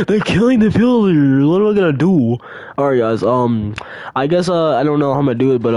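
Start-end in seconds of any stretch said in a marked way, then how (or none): 0.1-2.4 high, loud panicked cry. Retold or imitated. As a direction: shriek it in panic.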